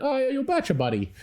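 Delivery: a jolly barman eager to please; cheery bartender. Retold or imitated. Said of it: "the guy was like".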